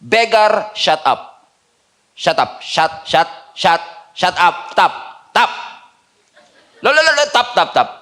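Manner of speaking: annoyed shushing. Retold or imitated. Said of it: "sabi mismo ng disciples".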